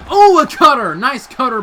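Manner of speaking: high, loud burst of surprise; excited shout. Real, not acted. Commentator catching a surprise cutter, shouting excitedly. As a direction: yell it as the move lands.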